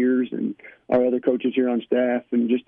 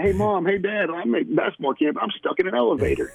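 lightly voiced camper, pitched higher; camper calling parents; 6 semitones higher than usual. Coach imitates kid FaceTiming parents from stuck elevator, lightly higher voice. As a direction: lightly imitate an excited kid's higher-pitched call home.

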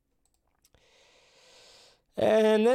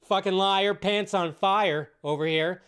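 mock accusation; 4 semitones higher, 3 dB louder than usual. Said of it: "sit there and be like".

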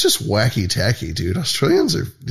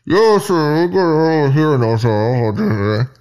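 higher, put-on radio chatter through a mask; mock cop radio voice; 4 semitones higher, slower than usual. Mocking the masked woman on the street mic, put-on voice. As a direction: imitate her talking into the mic.

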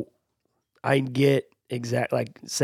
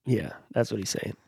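whispering; 4 semitones lower, 7 dB quieter than usual. Retold or imitated. Whispered aside to girls.

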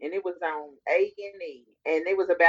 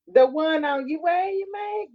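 surprised; 9 semitones higher than usual. Real, not acted. Shocked at the gossip.

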